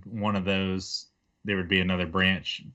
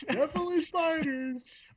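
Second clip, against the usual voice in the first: squeaky character voice; 4 dB quieter than usual. Pretend. Character sees spiders after all.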